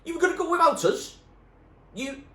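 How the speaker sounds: loud, high, fast accusing scream. A narrator's reading. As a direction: hurl the accusation at them. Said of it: "screamed Spat".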